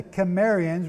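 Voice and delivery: Cimmerians with a hard K sound at the start. Shown as a demonstration. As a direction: say Cimmerians with the C as in cat. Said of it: "with a hard C".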